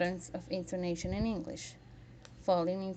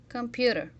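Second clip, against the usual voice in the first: "Computer" said clearly, stressed on "pu"; "Computer" with a stressed second syllable; 3 semitones higher, 3 dB louder than usual. Shown as a demonstration. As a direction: lean on the middle of "Computer". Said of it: "second syllable on the three is stress".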